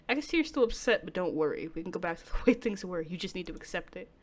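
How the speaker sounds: a hint of a hushed, menacing lover; lightly voiced calm stalker, soothing and sinister; quiet possessive captor; creepy soft-spoken boyfriend. Takuya voiced again.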